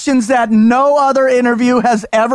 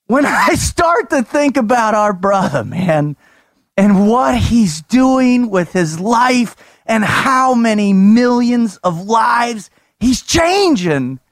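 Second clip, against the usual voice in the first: hyped up; 2 semitones higher than usual. Acted. Hyped-up intro speech.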